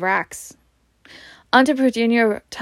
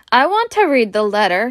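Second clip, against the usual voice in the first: mild loud; 3 dB louder than usual. Acted. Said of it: "he said loudly".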